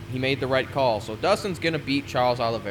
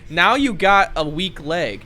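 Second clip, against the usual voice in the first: mocking critics; 5 semitones higher, 5 dB louder, slower than usual. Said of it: "everyone's gonna be like".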